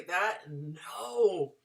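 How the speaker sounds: whispered, unvoiced no; disapproving whisper. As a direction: hiss it like a horrified friend. Audience reacting to job name.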